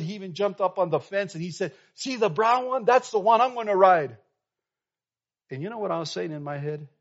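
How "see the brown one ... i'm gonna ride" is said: put-on high, loud, thrilled boy pointing out his bull; excited kid. Boy on the fence showing the pastors his bull, loud and thrilled. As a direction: show off the big bull with boyish glee. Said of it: "he's over here all excited".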